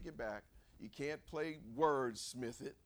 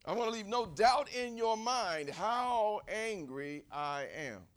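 acted emphatic anger; 4 semitones higher, 5 dB louder, slower than usual. Jonah stressing his anger to God.

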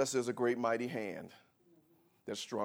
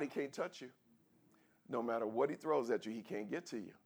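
quiet; 6 dB quieter than usual. Acted. Preacher drops after climax.

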